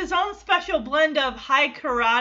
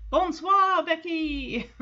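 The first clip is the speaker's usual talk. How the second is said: a fake French accent, tossed off lightly; half-hearted French accent on Bonsoir Becky; 3 semitones higher, slower than usual. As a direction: play at being French, mildly. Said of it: "throwing out some fake f-, French".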